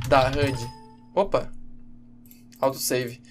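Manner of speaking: normal talking voice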